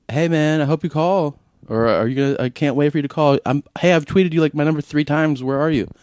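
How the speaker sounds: high-pitched imitation of eager tweeters; mock pestering fan, voice lifted high. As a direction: put on an over-keen fan waiting for a call. Mimicking eager fans' tweets.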